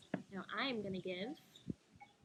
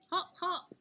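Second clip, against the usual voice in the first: bouncy hop sound; 7 semitones higher, 7 dB louder than usual. Acted. The rabbit hops in the story.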